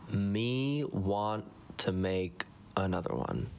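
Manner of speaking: slow caveman-style repeat of "Me want"; dry self-mocking parrot; mocking echo. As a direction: drag it out, teasing your own grammar. Editor echoes own bad grammar.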